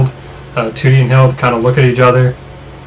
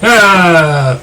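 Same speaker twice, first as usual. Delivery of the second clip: mock scream; 5 semitones higher than usual. A narrator's reading. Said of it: "lot of shouts of".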